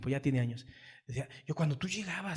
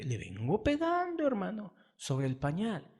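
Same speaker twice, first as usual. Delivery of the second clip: burla al padre blando; 4 semitones higher than usual. Retold or imitated. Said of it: "deja tus fantasías de decir".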